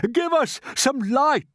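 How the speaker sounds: slow, high and loud; shouted. A narrator's reading. Grasshopper calling for light in the dark, shouting. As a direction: call out for light. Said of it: "shouted the old green grasshopper".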